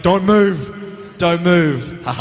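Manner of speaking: loud, urgent command; mock urgent shout. Cameraman yelling at the actor, urgent loud command. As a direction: bark it like a panicked cameraman. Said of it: "the cameraman, like".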